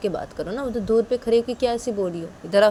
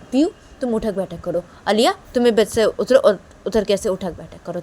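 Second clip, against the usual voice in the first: loud commanding mother; bossy orders; 4 dB louder than usual. Acted. Mother ordering Piyu and Liya to do sit-ups. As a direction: bark out the punishment.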